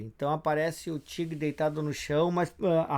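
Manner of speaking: ordinary delivery, nothing marked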